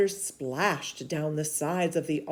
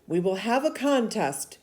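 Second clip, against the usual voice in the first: a firm, louder prophet's voice; stern prophet rebuking; 5 semitones higher, 4 dB louder than usual. Acted. Elijah rebuking King Ahab, stern and loud. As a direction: scold the king like a bold prophet.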